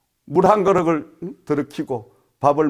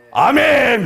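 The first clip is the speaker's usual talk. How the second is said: high, loud amen; amen called out high and loud; retold loud amen; 10 semitones higher, 12 dB louder, much slower than usual. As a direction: belt out the amen as the reply given to God. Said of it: "그랬어요".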